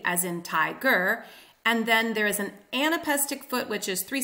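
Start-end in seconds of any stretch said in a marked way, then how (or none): 0.4-1.2 TI-ger, first syllable stressed; trochaic stress. Shown as a demonstration. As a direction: scan "tiger" as strong then weak. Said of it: "the opposite of iambic".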